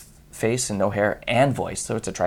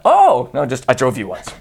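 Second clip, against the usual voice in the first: "Oh, no" bright and eager, then "I drove you once" flat; imagined eager reply; pretend excited version; 5 dB louder than usual. Driver's imagined eager reply, excited then flat.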